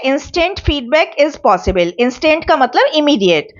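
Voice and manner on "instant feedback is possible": slow dictation. Shown as a demonstration. Teacher dictates a point slowly.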